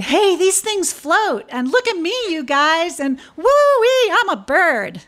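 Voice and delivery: very high, loud squeals of delight; giddy bugs floating on lace; bugs crying with joy. Acted. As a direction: whoop like a bug that can fly. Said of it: "The bugs cried".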